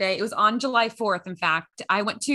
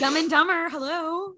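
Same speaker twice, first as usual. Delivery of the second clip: movie quote voice; 7 semitones higher than usual. Retold or imitated. Dumb and Dumber quote.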